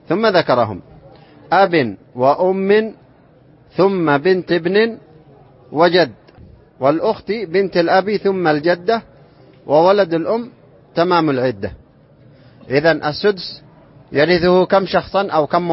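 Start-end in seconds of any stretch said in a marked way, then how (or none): 1.5-11.7 verse recitation. Acted. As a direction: recite the verse line in a deliberate metre. (إلقاء منظومة تعليمية بتأنٍّ)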